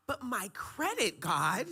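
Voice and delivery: high, slow whine to God; whiny protest. Retold or imitated. Guest acting out pleading with God, high and whiny. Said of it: "I was like".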